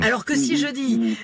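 usual speaking voice

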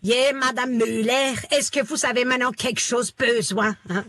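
mock Alsatian shopkeeper greeting a customer; Alsatian baker. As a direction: play a village baker with a thick Alsatian accent. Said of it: "la syntaxe de ma boulangère, ça donne".

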